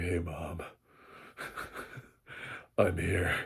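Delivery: very deep, slow, breathy near-whisper. Mocking a teenage character in a film, imitating a very deep voice. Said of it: "he's got one of the deepest voices".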